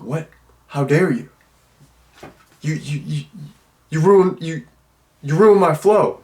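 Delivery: sputtering, stop-start imitation of outrage; mock pissed-off. Interrupted man facing the girl, mock outraged sputter. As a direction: stammer with put-on indignation, pitch jumping up. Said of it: "like he's so pissed".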